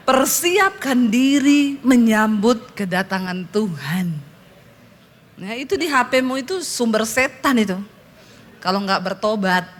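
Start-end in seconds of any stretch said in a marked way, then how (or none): 0.1-4.1 slow, drawn-out preacher's exhortation; weighty and deliberate, word by word; solemn warning. Acted. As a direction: stretch it out like a pulpit warning. Mock solemn pulpit warning.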